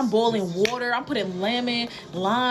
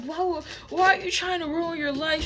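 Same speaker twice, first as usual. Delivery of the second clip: mock crying mother; 8 semitones higher than usual. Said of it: "My mother is busting down in tears".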